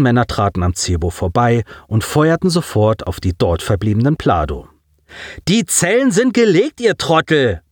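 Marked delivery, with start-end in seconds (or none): 5.5-7.6 high, exasperated bark; angry snapping. A narrator's reading. Boy to the approaching men, barked in irritation. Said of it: "blaffte Colin".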